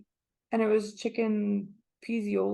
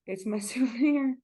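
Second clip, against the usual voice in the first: laughing; 3 semitones higher than usual. Real, not acted. Laughing about pricey souvenir jar.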